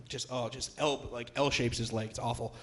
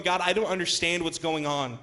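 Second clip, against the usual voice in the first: high, loud, impassioned cry to God; anguished plea; 7 semitones higher, 5 dB louder than usual. Acted. Struggling believer tells God they don't understand, pleading passionately. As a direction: plead in frustration, as a preacher voicing a believer.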